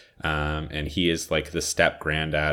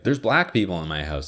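alarmed exclamation; 3 semitones higher, 3 dB louder than usual. Shown as a demonstration. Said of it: "It'd be like".

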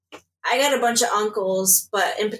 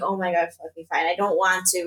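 put-on half-hearted sulky teen voice; a sulky kid giving in under protest; grudging angsty mutter. Angsty teen grudgingly giving in to mom. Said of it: "I'm like".

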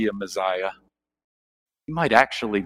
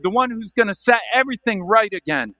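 rising proclamation; 6 semitones higher than usual. Acted. Proclaiming Peter's answer.

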